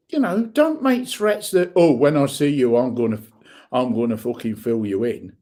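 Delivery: heated, rising rant at online trolls; furious and defiant, calling them out; angry rant. Real, not acted. Vlogger ranting at anonymous trolls, angry. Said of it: "That's me rant over".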